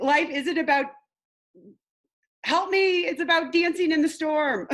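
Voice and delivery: high, laughing attempt at the quote; fumbling a quote. Real, not acted. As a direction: stumble through it with a giggle. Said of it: "every time I mess up this quote".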